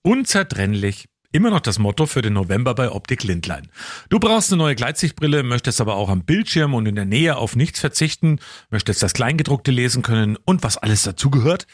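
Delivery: measured, deliberate sponsor read; polished host-read advert. Acted. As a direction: read it out like a radio commercial.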